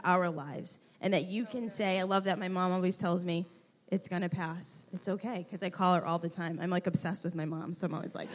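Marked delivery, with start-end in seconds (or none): 3.9-5.5 soft, calming motherly words; reassuring. Retold or imitated. Mom comforting her grown daughter, reassuring. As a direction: quote mom's comfort gently and quietly.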